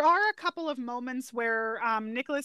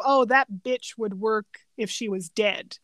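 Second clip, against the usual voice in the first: slow, with "bitch" hit hard and drawn out; heavy stress on bitch; slower than usual. Retold or imitated. The partner's crude line with "bitch" stressed heavily. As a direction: lean into "bitch" as if it were the whole point. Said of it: "I put a lot of emphasis on it".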